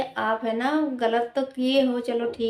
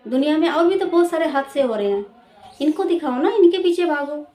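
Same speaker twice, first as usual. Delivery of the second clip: indignant scolding; 4 semitones higher, 5 dB louder than usual. Real, not acted. Scolding the media.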